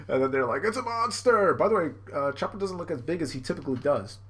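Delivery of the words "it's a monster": high, loud cartoon cry of fright; hammed-up horror; mock terror. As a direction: exclaim like a scared minion. Henchmen see giant Chopper.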